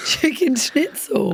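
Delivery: slow, careful "Chicken schnitzel" to beat the brace; said really slow. Shown as a demonstration. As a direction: spell out "Chicken schnitzel" syllable by syllable, slowly. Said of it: "I have to say it really slow".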